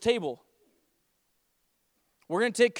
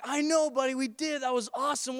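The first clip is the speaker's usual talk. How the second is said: put-on higher-pitched parent-to-child enthusiasm; pleased father; 4 semitones higher than usual. Dad answering his excited small son, pleased. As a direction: share a little kid's delight.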